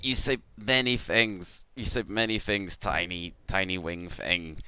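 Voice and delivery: lightly voiced insect creature, halting and repetitive; simple creature's stilted speech; Clicknid creature. Small winged creature addressing the party, halting creature voice. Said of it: "And he goes".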